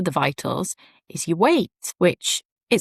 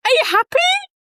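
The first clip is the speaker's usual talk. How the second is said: high, louder worried question; a hint of a worried husband asking; husband unsure; 4 dB louder than usual. Husband unsure if tears are joy, high anxious question. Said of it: "And he said".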